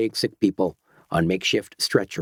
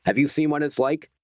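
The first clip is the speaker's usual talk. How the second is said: snapping; 5 semitones higher than usual. Acted. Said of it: "snapped Doctor Petrie".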